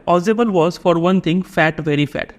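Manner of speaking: reading the text aloud at a crawl; slow passage reading. A narrator's reading. Teacher reading the passage to students, slow and deliberate. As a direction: read each word slowly for the class.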